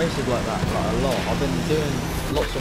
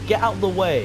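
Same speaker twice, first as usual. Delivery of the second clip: angry shout; 6 semitones higher, 5 dB louder, faster than usual. Real, not acted. Yelling at a car in the way.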